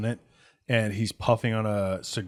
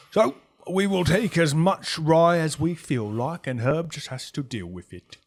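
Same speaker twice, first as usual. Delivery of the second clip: domineering gang boss; 5 semitones higher, 5 dB louder than usual. Acted. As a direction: lay down terms grandly to intruders. Boss lays down his terms.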